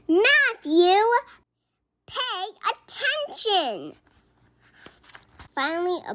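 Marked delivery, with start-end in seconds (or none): 0.1-4.0 high, loud team shout; yell. A narrator's reading. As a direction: shout it louder at him. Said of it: "The other players yelled".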